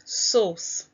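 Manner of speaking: sauce said clearly for the class to echo; model word to repeat. Shown as a demonstration. Teacher to pupils, modelling the word: sauce clearly enunciated. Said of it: "Repeat after me".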